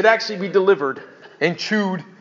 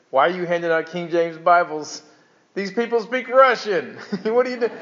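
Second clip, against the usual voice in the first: mock exasperated missionary; retold incredulous challenge. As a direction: question him as if it makes no sense. Retold missionary challenges Bible distributor.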